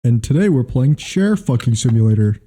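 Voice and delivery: lightly imitated YouTuber; mock game-intro patter; Markiplier. Co-host finishing mock intro, YouTuber voice. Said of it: "he's doing a Markiplier voice".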